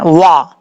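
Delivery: वा said with rounded lips; tajweed drill. Shown as a demonstration. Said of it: "होंठ गोल करके पढ़ना है".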